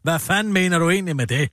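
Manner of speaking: fast, blunt demand; a hint of a pushy journalist, fast; blunt journalist question. Shown as a demonstration. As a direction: fire the follow-up question at him. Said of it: "journalisters opgave at spørge".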